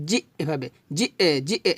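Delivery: জি with a short light push of breath. Shown as a demonstration. Teacher showing a soft push on জি. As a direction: tap জি lightly, don't press. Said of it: "জি ধাক্কা দিয়ে বলবেন হালকা করে".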